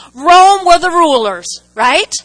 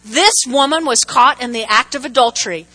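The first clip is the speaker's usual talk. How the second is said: challenging Pharisees. Retold or imitated. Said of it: "this is the Pharisees talking to Jesus".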